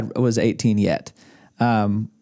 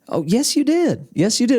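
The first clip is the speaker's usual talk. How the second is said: higher-pitched, insistent imitation of an elderly man; insistent old man; 12 semitones higher than usual. Old man contradicts the singer about college, insistent. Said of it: "He's this eighty-year-old man".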